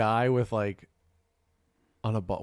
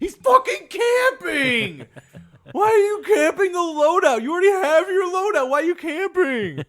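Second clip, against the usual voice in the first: put-on high, loud screeching kid complaint with a laugh; whiny raging kid; 8 dB louder than usual. Mocking a young teammate raging about campers, loud and high. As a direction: screech it like an angry young gamer. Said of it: "they're just bitching".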